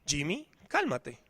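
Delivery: calm himself down softly under his breath; a father softly talking himself down in the store, hushed. Retold or imitated. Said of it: "él le decía al niño".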